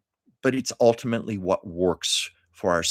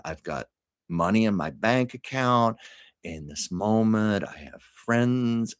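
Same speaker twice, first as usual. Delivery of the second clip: calm affirmation; 3 semitones lower than usual. Retold or imitated. Passing on a friend's coping exercise, calm and measured. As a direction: recite each one calmly, like a mantra. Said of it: "she said".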